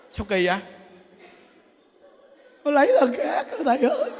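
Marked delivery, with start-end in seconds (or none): 2.6-4.1 high-pitched comic sobbing complaint; hammed-up tearful whine; mock crying. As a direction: imitate a jilted husband blubbering to the nun. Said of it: "tự nhiên khóc kỳ cục ấy".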